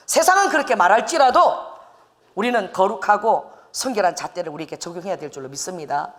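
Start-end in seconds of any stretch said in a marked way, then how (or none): none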